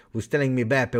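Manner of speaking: ordinary talk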